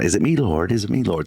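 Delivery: mock-biblical British accent; lightly acted British accent, questioning. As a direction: disciples asking in put-on British voices. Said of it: "say that in a British accent".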